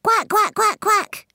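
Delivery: high, loud duck quacks; mummy duck quacking. A narrator's reading. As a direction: quack like a mother duck calling her young. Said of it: "took a deep breath and said".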